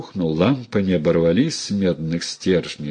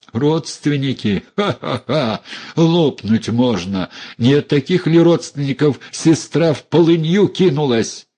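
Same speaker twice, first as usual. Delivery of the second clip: bitter mocking laugh; 7 semitones higher than usual. Dunya scoffs bitterly.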